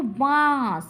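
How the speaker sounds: বাঁশ as one long unbroken syllable. Shown as a demonstration. Teacher showing one beat in verse, বাঁশ drawn out in one go. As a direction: hold the vowel of বাঁশ without breaking it. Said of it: "একেবারে উচ্চারণ করছি না ভেঙে ভেঙে".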